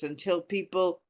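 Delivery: normal talking voice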